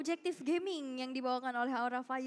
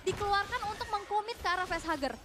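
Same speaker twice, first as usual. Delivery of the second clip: play-by-play commentary =29. Acted. Live esports play-by-play.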